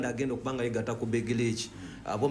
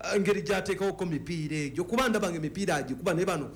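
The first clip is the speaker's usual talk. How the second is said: animated, raised pitch praise; excited; 6 semitones higher than usual. Real, not acted. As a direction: gush about the player, voice up high. Raving about a player's skill.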